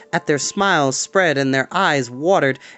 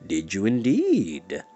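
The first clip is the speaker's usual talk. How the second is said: slow, low, drawn-out knowing reply; low slow sinister drawl; sly old Moundshroud; 7 semitones lower, 4 dB quieter, slower than usual. Acted. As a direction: tease them from deep down. Moundshroud answers the boys.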